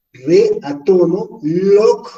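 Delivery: slow split of re and log, log punched; stressed syllable shown. Shown as a demonstration. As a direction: separate re from a strong log. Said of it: "tónico, ¿no?".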